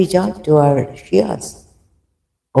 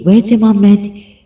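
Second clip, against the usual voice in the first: ordinary delivery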